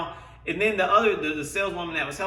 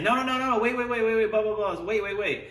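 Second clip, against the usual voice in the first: higher, pleading wait wait; stalling saleswoman; 4 semitones higher than usual. Retold or imitated. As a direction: beg him to stay, higher.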